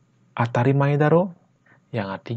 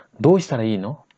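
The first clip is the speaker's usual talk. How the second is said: faster, natural-speed question; sped up; 3 dB louder than usual. Shown as a demonstration. Teacher repeats the question at normal speed. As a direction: rattle it off quickly. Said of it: "Ya, kalau dipercepat".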